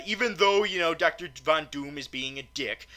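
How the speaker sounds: usual speaking voice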